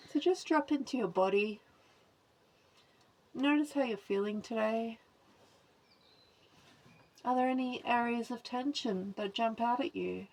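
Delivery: calm, measured guidance with long pauses; guided body scan. Acted. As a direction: guide attention through the body, leaving space after each phrase.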